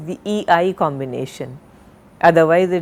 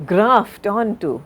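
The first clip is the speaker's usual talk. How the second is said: "graft" drawn out slowly and stressed, "onto" after it; slow, deliberate model of "graft onto"; careful word stress; 2 semitones higher, slower than usual. Shown as a demonstration. Teacher showing the right syllable to stress, "graft onto" said deliberately. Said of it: "It's important to stress on the right".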